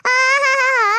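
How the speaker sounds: loud sneering aha; mocking aha. Neighbour mocks the threat to let air out, loud sneering aha.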